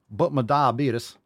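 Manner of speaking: slow whiny "but my diabetes"; mock the excuse, drawn out. Coach mocking viewers' health excuses, whiny.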